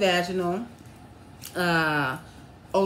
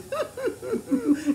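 high-pitched mock whimpering sobs; imitated sobbing. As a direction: mimic your own crying as overheard. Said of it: "All I hear is".

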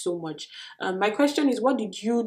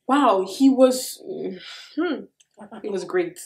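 emotional; slower than usual. Real, not acted. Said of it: "got so emotional saying that".

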